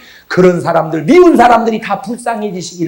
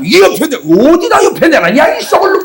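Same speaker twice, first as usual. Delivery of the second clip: mock nagging wife; 9 semitones higher than usual. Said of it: "막 이러는 거야".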